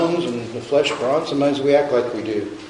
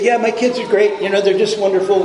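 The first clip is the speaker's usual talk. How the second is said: fake cheerful; 5 semitones higher than usual. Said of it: "Don't say".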